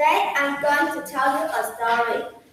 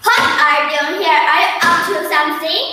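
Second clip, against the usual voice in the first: a louder, fast challenge to an intruder; yelling dog; 2 semitones higher, 4 dB louder than usual. Acted. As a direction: bark the questions out at the fox. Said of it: "he yelled".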